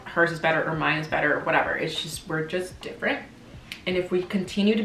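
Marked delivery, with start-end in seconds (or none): 1.8-3.2 breathy, hushed resignation; soft, giving-up sigh; near whisper. Real, not acted. Quiet resignation.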